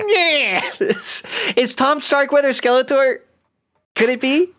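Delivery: nasal evil-overlord rasp; Skeletor voice. Pretend. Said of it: "More Skeletor".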